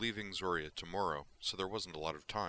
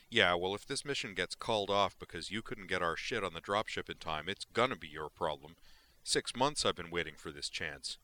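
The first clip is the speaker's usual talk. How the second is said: angry; 4 dB louder than usual. Acted. Brejik threatening Rando.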